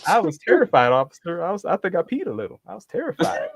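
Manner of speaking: high fake-frightened whine; mock terrified. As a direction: play the frightened one to the officer. Mock victim telling police.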